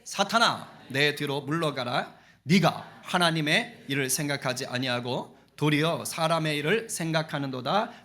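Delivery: stern rebuke. Acted. Reading Jesus's rebuke aloud.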